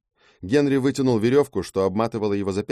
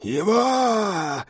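sudden high cry, pitched way up; shouted out; 12 semitones higher than usual. Acted. Harpy Kai crying out, pointing at the hero. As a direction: fling the word out as a cry. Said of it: "выкрикнула женщина".

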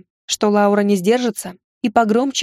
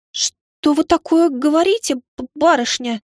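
stunned; 6 semitones higher, slower than usual. Acted. Laura stunned by confession.

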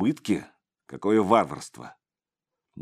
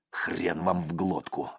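spiteful thought; 4 dB quieter, slower than usual. A narrator's reading. Креплёный злобно думает про себя, тихо и медленно. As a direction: spit it out silently in spite. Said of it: "злобно подумал он".

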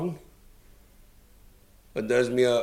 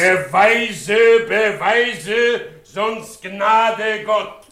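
angry threat; 6 semitones higher, 5 dB louder, much slower than usual. Acted. Threatening the accuser.

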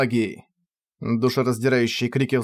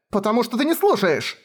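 much higher tearful outburst; sobbing girl; 9 semitones higher than usual. Acted. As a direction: cry it out at him. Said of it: "отвечала она, рыдая". (Кефар отвечает, рыдая)

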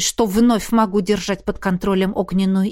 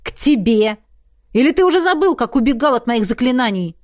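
heated accusation; 3 semitones higher, 4 dB louder than usual. Acted. Heroine accuses Sevastyan heatedly.

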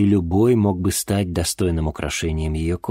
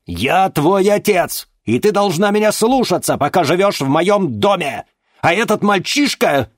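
stern furious father; 13 semitones higher, 7 dB louder than usual. Acted. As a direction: lay down the law. Father lays down the law.

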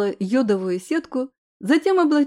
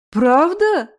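bright, louder happy question; gladly surprised; 4 semitones higher, 5 dB louder than usual. Acted. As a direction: perk up with delight. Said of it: "обрадовалась Лапшина".

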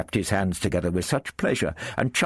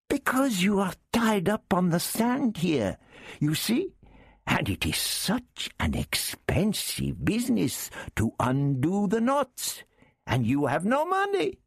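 much higher, wheedling Arab character; Arab thief voice. Acted. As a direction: lift the voice high for the sly Arab.

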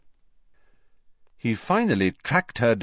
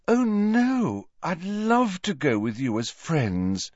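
put-on higher airy girl voice, slow and delighted; beaming Luna; 8 semitones higher, slower than usual. A narrator's reading. Luna accepting Harry's invitation, airy and delighted. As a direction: let the joy float out dreamily.

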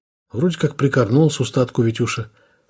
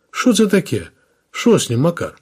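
higher, startled Ukrainian-tinged question; surprised exclamation; 6 semitones higher than usual. Acted. Second officer walks in and finds the lieutenant down, surprised. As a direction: react to finding a body.

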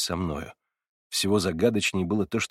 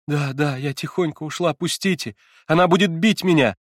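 higher and rising to a loud panicked cry; frightened crying out; 6 semitones higher, 5 dB louder than usual. A narrator's reading. Girl struggling free from the narrator, panicked cry. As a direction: plead to be let go in fear. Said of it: "закричала она".

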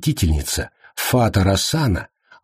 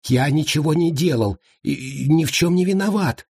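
high trembling protest; high scared captive voice; 7 semitones higher than usual. A narrator's reading. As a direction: plead innocence in a high quaver. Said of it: "дрожащим голосом сообщил Уйбуй".

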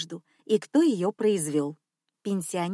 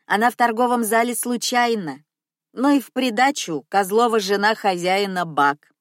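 put-on loud old cleaner; 4 dB louder than usual. Cleaner lecturing customer loudly.

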